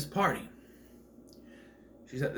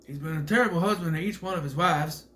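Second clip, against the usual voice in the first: lightly raised Southern twang; Keanu's southern accent; 3 semitones higher, 3 dB louder than usual. Retold or imitated. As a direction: put on a movie-lawyer Southern accent. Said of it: "devil's advocate accent, where he's like".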